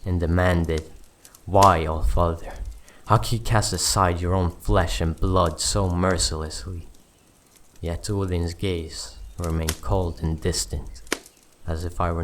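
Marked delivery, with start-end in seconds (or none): 1.4-6.9 mildly angry, demanding challenge; a touch of trembling rage at a god; trembling with anger. Acted. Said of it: "my voice trembling with anger, and demanded".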